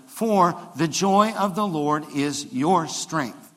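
slow, weighty scripture line; slow declaration. Shown as a demonstration. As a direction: lay it down slowly for the church to repeat. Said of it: "Will you say that with me?".

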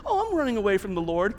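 quick, low, offhand admission; chill nonchalance. Acted. Jonah answering a fellow passenger's small talk, nonchalant. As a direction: drop it casually into small talk. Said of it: "Everybody's just chill".

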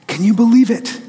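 mildly excited quote, lifted in pitch; excited retelling. Retold or imitated. Retells daughter thrilled to meet star.

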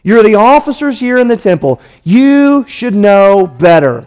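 lightly voiced scornful leaders looking down on their officers; scornful rebuke. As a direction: talk down to them, hammed-up contempt. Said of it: "That's what they're saying".

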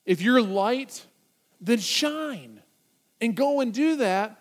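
punchy urgent charge with pauses. Retold or imitated. Jesus charging his followers to act, urgent. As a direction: press each command home urgently. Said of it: "With urgency in his voice".

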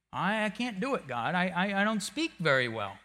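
a hint of a meek Moses; Moses stammering. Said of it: "Moses going back to his old crutch".

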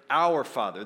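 "Our" stressed, then falling; "Our" set firmly apart for contrast. Shown as a demonstration. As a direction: punch "Our" before "Father".

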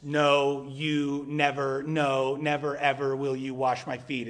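halting, sputtering refusal, words tripping over each other; spat out stuttering. Retold or imitated. Preacher voicing Peter refusing Jesus, a halting spat-out no. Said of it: "spat out, stuttering sentence".

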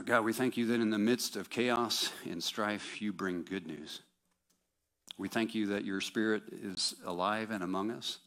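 sincere, steady prayer voice. Acted. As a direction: pray aloud to God. Leads prayer.

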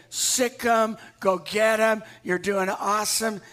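loud encouraging cheer; cheering shout. Retold or imitated. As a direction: hype them up loudly. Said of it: "just say".

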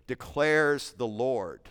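"declares" drawn out slowly, weight on each word; slow emphatic quote. Shown as a demonstration. Preacher to his congregation, slow weighty "declares the Lord". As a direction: lean into "declares", unhurried. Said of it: "the declarative equation".

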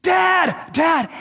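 high, loud mock child's cry of "Dad"; child screaming. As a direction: imitate a scared kid yelling for dad. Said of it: "one of the kids starts screaming".

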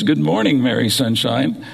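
lightly imitated sing-song wake-up greeting. Recalling the voice the girls woke up to, lightly sing-song. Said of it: "woke up every morning to that voice".

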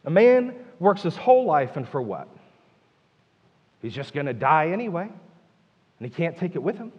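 mildly exasperated questioning; frustrated. Acted. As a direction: complain about the pointlessness of it all. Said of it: "Can you feel his frustration?".

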